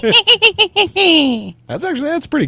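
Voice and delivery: high squeal of laughter; laughing. Real, not acted. Laughing at coworker's witch attempt.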